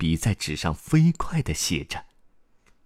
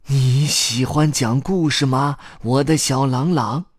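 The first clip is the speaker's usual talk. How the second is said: story grandpa; 6 semitones higher, 3 dB louder than usual. Acted. Old storyteller questions the boy.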